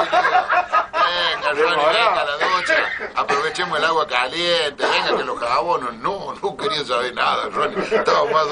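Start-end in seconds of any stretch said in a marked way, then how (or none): 0.0-5.9 coaxing call. Retold or imitated. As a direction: wheedle him toward the water. Urging Ronnie into the shower.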